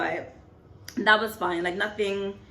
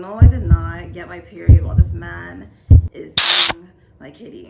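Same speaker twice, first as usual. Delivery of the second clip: loud insistent no, nearly yelled; shouted denial; 14 dB louder than usual. Retold or imitated. Retelling her panic in bed, shouting no. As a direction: shout it down, refusing the idea.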